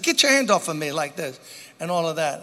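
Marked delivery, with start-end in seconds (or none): 0.0-0.9 imitating an upset friend, voice raised; mildly indignant, acted-out protest. Friend to the man grabbing his pants, upset. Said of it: "got upset and said".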